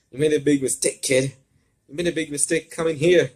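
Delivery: high, loud menacing villain snarl; growling threat. Acted. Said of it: "growls at him".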